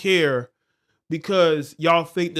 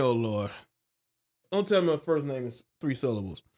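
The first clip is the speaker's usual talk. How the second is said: exasperated mutter; 5 semitones lower, 9 dB quieter than usual. Real, not acted. Exasperated aside about the name.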